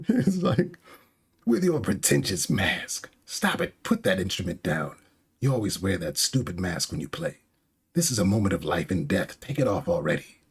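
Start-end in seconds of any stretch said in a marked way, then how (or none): 1.4-10.4 mildly exasperated acted rant; frustrated insults. Orochi insults Komurosaki while she plays, frustrated scolding. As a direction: throw insults in irritation. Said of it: "get frustrated at a situation".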